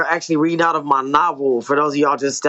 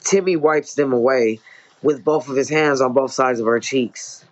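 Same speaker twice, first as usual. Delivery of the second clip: story narration. A narrator's reading. Author reading own novel to listeners, measured story narration. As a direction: read it as an author narrating dialogue and action.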